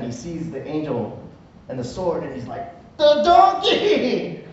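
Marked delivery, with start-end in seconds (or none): 3.0-4.4 high, slow cry of sudden realization; a stretched, wide-eyed gasp of understanding; startled realization. Retold or imitated. Balaam finally sees the angel, startled slow cry.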